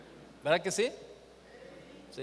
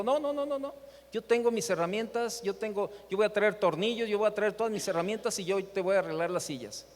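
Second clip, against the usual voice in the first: high-pitched, keen protest, voicing the eager man; eager insistence; 3 semitones higher, 4 dB louder than usual. Wheelchair man eagerly telling the pastor he'll bring his own tools, excited. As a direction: brush off the offer, excited to help.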